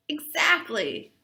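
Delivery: slow breathy whisper of one word. Acted. A friend agreeing with Natalie in a slow whisper. Character answer in read story.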